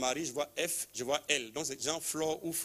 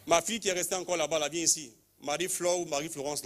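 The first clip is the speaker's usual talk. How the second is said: calling out; 4 semitones higher than usual. Real, not acted. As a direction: call her up from the back. Calling a woman forward.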